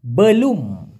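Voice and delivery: belum with a clear final m, drawn out; correct pronunciation. Shown as a demonstration. Teacher modeling বেলুম for Bengali learners. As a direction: say বেলুম ending firmly on m, not n. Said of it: "বেলুন না কিন্তু".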